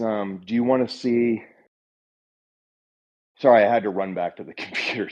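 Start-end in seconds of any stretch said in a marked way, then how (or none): 3.4-5.1 breathless after running; panting slightly from the run; out of breath. Real, not acted. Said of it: "so I'm a little out of breath".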